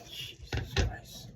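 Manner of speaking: slow, breathy muttered oath; whispered curse. Real, not acted. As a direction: curse under your breath. Fixing a tight wire connection.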